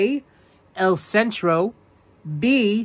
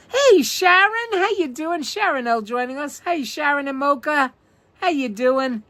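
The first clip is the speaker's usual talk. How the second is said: high, bright hello to a viewer; cheery greeting; 8 semitones higher than usual. Real, not acted. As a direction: sing out a welcome.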